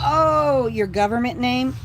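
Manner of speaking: playful loud indignation; surprised. Real, not acted. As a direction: act caught out by hearing your real name. Reacts to being called by full name.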